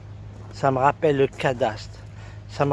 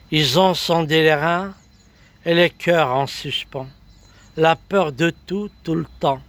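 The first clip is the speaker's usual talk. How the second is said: emphatic verse in short, listed phrases; measured spoken-word poem; poetry recital; 3 semitones higher than usual. Acted. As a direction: declaim it line by line, dropping at the end.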